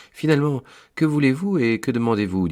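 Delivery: loud, high and fast demand; an imposing angel, loud and hurried; stern angel challenge. Acted. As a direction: bark the question down from the gate. Angel challenges the visitor at gate.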